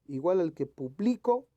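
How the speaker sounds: publico with BLI punched; stress on middle syllable. Shown as a demonstration. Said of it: "que esté correctamente escrita".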